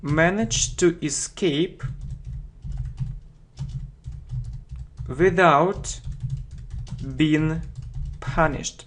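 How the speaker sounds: broken into chunks with long pauses; feed it piece by piece for students. Shown as a demonstration. Teacher slowing a definition for learners, chunked. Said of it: "teacher slows definition phrase by phrase".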